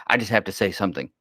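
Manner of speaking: mocking chatty kid. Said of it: "Ever heard somebody".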